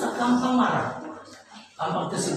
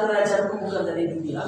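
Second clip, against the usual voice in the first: lower, softer, quietly certain; calm reply; 3 semitones lower, 3 dB quieter than usual. Retold or imitated. Jesus answers Pilate softly, lower and calm. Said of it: "Yesus bilang".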